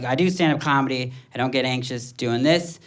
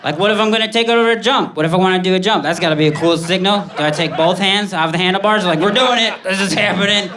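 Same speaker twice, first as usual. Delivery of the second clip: higher and louder, rushing with excitement; hyped-up excitement; 5 semitones higher, 3 dB louder than usual. Retold or imitated. Comic telling his bike-stunt fantasy, hyped-up and fast. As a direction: sell it like a thrilling stunt.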